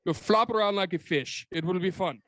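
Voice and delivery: high mock German director voice; bad Verhoeven. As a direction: cheerfully put on a bad German accent. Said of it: "some bad Verhoeven impression".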